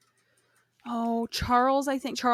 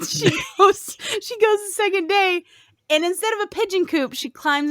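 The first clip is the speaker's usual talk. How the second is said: giggly narration; laughing while talking; 10 semitones higher than usual. Real, not acted. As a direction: tell it while still laughing.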